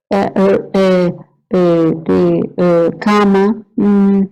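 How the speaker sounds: broken, groping words with long hesitations; lightly acted halting aphasia patient; halting aphasic speech. Shown as a demonstration. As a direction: mimic a patient searching for words. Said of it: "Y con confusión".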